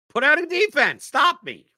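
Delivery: high, loud taunting challenge; mock challenge. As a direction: dare them to stop you.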